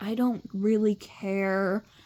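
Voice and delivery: deadpan, low, flat monotone, slow and stretched out. Showing the voice she does for Scarlet: low monotone Scarlet voice. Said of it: "Scarlet's like down here and she's like, so monotone".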